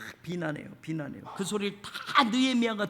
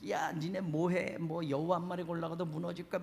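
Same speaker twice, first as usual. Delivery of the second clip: mocking; 3 semitones lower, 6 dB quieter than usual. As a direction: sneer lazily at the builders. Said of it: "이렇게 조롱하고 비웃고".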